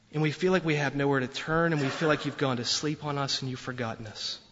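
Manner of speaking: earnest spoken prayer to God. Real, not acted. Pastor prays aloud for the congregation, earnest and sincere.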